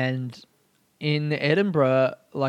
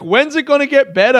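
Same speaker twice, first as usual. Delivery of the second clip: worried plea; 10 semitones higher, 7 dB louder than usual. Retold or imitated. Girl at karaoke asking him.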